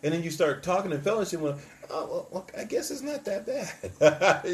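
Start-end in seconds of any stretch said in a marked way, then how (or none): 1.9-4.4 grudging concession. Acted. Acting out grudging change of mind.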